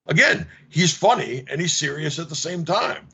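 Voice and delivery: ordinary talk, nothing marked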